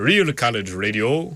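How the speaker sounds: jokey, playful, put-on novelty fun voice. Repeating the station slogan for listeners: put-on fun voice. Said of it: "That's my fun voice for tonight".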